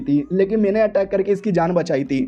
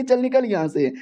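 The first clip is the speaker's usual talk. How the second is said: higher, irritated brush-off; annoyed girl; 5 semitones higher than usual. Acted. The girl dismisses the hero, higher and irritated. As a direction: wave him off sharply, pitched up.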